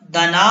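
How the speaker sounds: "दना" with short "द", long "ना"; stretched noon. Shown as a demonstration. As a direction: draw out only the last vowel of "दना". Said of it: "नून को खींचना है".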